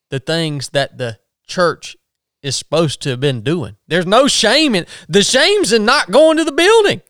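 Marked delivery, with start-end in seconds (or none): 3.9-7.0 rising, louder emphatic point; fired-up preacher voice; impassioned. Real, not acted. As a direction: drive the point home with rising heat. Preacher gets worked up.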